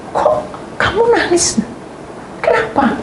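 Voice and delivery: high, worried questioning voice; concerned friend. Retold or imitated. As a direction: ask gently, surprised. Friend asks why crying. (teman bertanya cemas)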